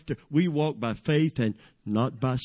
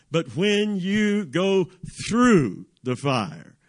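emphatic scripture declaration; 2 semitones higher, slower than usual. Acted. Preacher proclaiming God's old covenant promise to the congregation, emphatically. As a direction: declaim it in weighty phrases with big stressed words.

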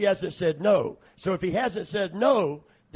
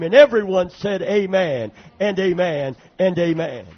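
rousing call; 9 dB louder than usual. Real, not acted. Calling congregation to respond.

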